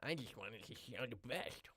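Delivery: slow, high hillbilly twang; hillbilly American. Acted. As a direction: drag it out in a hillbilly American accent.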